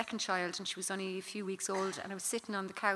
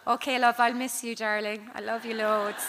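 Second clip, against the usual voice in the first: mock breezy goodbye; 6 dB louder than usual. Mum's mock reply to kid.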